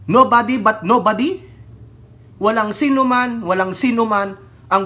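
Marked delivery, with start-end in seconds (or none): 0.1-1.4 "nobody" stressed, louder, rising; mocking quote. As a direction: repeat "nobody but nobody" with mocking emphasis. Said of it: "sasabihin niya".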